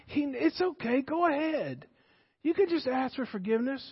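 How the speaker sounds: soft tempting voice. Retold or imitated. Satan soothing the sinner, very soft. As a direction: whisper the temptation gently. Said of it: "it says very softly".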